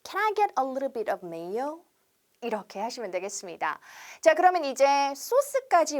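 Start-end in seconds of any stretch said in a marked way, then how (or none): 0.0-1.8 slow, careful order phrase; slow classroom demo; slow model sentence. Shown as a demonstration. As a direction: read it word by word for repeating. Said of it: "한 번 더".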